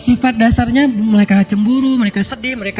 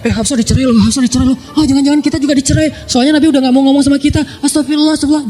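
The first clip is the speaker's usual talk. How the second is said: higher, quick anxious gossip; gossiping wives; 4 semitones higher, faster than usual. Acted. The Prophet's wives gossip anxiously about Hafsah's divorce, higher quick chatter. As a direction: chatter it like worried friends passing news.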